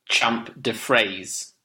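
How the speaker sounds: French title in an English accent; hesitant English-accented attempt at French; anglicised French. Real, not acted. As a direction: say the French slowly, as an English speaker would. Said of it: "that's how an English person would say it".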